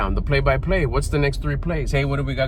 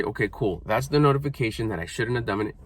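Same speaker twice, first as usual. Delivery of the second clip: calm self-talk; 4 semitones lower, 6 dB quieter than usual. Retold or imitated. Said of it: "and say".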